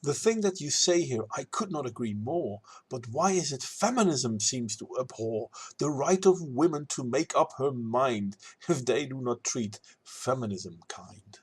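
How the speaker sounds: measured rhymed rebuttal in verse; verse recital. Acted. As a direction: recite it as a spoken poem reply.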